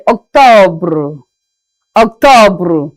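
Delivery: "octobre" ending in a French "bruh"; "Octobre" with the stress at the end. Shown as a demonstration. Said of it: "we say".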